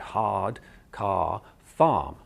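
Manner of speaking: "hard", "car", "farm" slowly, with long "ah" and no R. Shown as a demonstration. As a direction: open the back of the mouth on "hard", "car", "farm", dropping each R. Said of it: "So you'll get".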